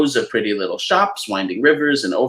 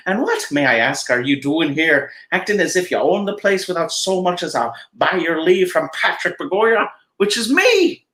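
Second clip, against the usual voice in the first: a lightly voiced, huffy little leprechaun, rising higher; indignant leprechaun; 5 semitones higher than usual. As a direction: scold the intruder as a proud old leprechaun. Leprechaun Patrick voiced throughout.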